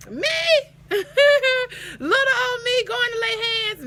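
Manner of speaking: high, loud disbelieving squeal; playful shock; incredulous. Real, not acted. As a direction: sound amazed you were chosen. Mock disbelief at assignment.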